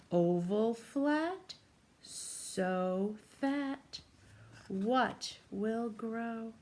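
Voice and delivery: put-on slow, sing-song rhyme for a child; riddle read-aloud. A narrator's reading. Teacher reads the rhyme to a young child, slow sing-song. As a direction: chant the riddle slowly to a little listener.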